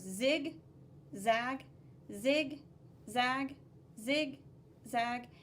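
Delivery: each zig and zag clipped apart; rhythmic zig zag. Shown as a demonstration. Teacher drilling the zigzag line, rhythmic. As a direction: beat out zig, zag evenly. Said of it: "Let's practice our zigzag line".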